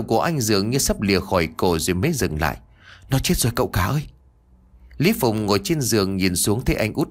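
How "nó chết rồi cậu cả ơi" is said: henchman report. Acted.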